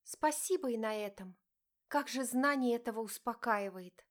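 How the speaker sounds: wife exclaiming sarcastically at husband; sarcastic exclaim. Acted. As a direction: throw the thanks back at him. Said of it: "воскликнула она".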